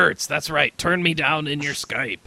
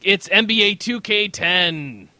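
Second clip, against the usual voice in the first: used car salesman voice; slower than usual. Acted. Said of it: "hardcore edgy voice".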